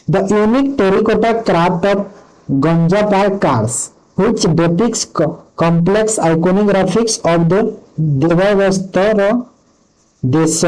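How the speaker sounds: slow, careful question read-out; reading a quiz question. Acted. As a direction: read each word out deliberately. Reads quiz question aloud slowly. (ଧୀରେ ଧୀରେ ପ୍ରଶ୍ନ ପଢ଼ିବା)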